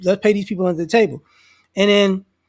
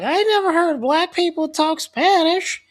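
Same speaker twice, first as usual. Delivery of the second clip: mock amazed lady; 8 semitones higher than usual.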